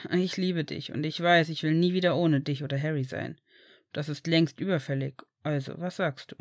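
lightly voiced low, earnest lover; earnest Sirius. Sirius declares his love to Remus, earnest and low.

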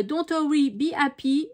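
English phrase in a French accent. Real, not acted. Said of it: "avec mon accent anglais". (anglais prononcé à la française)

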